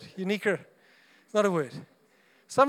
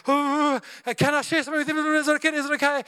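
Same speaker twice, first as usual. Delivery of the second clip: timid asking; 6 semitones higher, 4 dB louder than usual. Retold or imitated. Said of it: "You build up all your courage".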